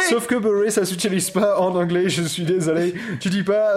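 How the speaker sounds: put-on French with an English accent. Objecting to co-host's buttered pun, English accent.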